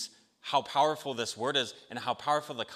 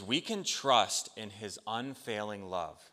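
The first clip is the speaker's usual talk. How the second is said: P=A; slow stress on can. Shown as a demonstration. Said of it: "So the first one is".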